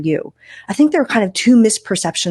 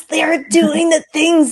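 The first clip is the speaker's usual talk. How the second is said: mock admiring echo; 10 semitones higher, slower than usual. Host echoes earlier mock quote.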